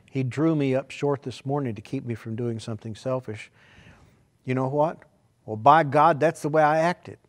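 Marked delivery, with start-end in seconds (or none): 5.4-7.2 louder, high self quote; preacher quoting his own resolve. Retold or imitated. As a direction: bark it as a firm vow. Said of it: "That sounds terrible".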